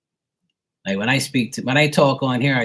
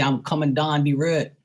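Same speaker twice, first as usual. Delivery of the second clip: higher, strong Bermudian accent; 5 semitones higher than usual. Shown as a demonstration. Showing how locals talk, strong Bermudian accent. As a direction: squeeze "down the road" into Bermudian "dahn di reed". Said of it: "Like, they say".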